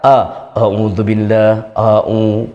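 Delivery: slow, deep, heavy "a'udzubillah"; booming heavy a'udzubillah; big deep voice. Shown as a demonstration. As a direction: imitate a reader puffing up the A. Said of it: "dengan suara yang besar".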